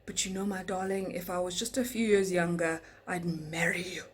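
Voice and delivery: mimicking Mario. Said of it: "And he goes".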